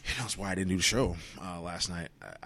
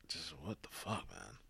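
whisper; 6 dB quieter than usual. Real, not acted. Exasperated aside, whispered.

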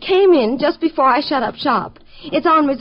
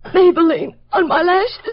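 higher, crying complaint; tearful wail; 4 semitones higher, 3 dB louder than usual. Acted. Crying woman fretting about mascara on lashes, tearful. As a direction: wail it through the sobs. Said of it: "Are you starting to cry?".

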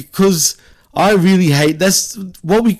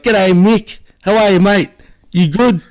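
exaggerated broad Aussie accent, pitched higher; mocking Aussie accent; 5 semitones higher than usual. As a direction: ham up a true-blue Aussie greeting. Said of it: "a full bred, bred, true blue Aussie roo, right, would be like".

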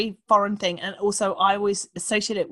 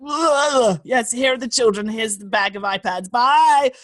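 curt handover; 4 dB louder than usual. Retold or imitated. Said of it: "You're like".

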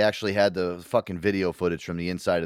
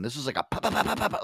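mimicking rapid gunfire; 7 semitones higher, faster than usual. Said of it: "imitating rapid gunfire".

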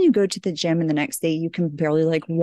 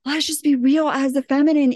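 mocking sweet spiritual voice; 7 semitones higher than usual. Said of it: "what is being portrayed from the people, they're like".

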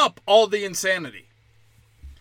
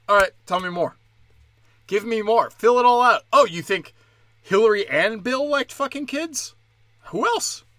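an interviewer hungry for more; eager interviewer; 3 semitones higher than usual. Retold or imitated. Comic mimicking Alex Jones urging a guest on, eager. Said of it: "Alex Jones saying".

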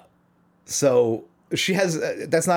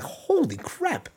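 high-pitched, drawn-out astonishment; retold amazement; much slower than usual. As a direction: stretch it out in amazed disbelief. Retelling his amazement at crowd singing.

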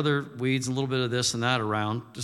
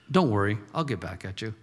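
playful threat; 6 semitones lower, faster than usual. Retold or imitated. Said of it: "We say it sometimes playfully".

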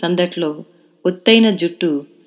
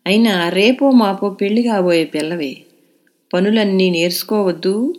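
sing-song grandmother; 3 semitones higher, 4 dB louder than usual. A narrator's reading. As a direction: chant the scolding to wake the lazy girl. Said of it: "అని రాగం తీసి". (అమ్మమ్మ రాగం తీస్తూ తిట్టడం)

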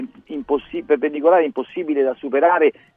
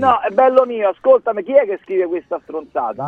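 indignant; 5 semitones higher than usual. Real, not acted. Indignant reply to critic.

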